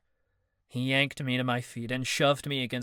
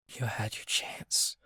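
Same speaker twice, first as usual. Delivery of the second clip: cold rejection; 6 dB quieter than usual. Acted. Callie coldly rejecting Marcus.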